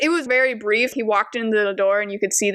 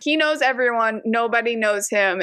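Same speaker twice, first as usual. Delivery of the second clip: ordinary talk, nothing marked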